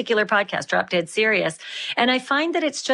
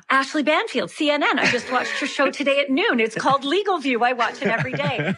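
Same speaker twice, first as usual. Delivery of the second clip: gasp, then a higher-pitched delighted recognition; excited Brian Mulroney; 5 semitones higher than usual. Retold or imitated. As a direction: imitate a thrilled fan spotting a TV host. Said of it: "he stopped me and he said".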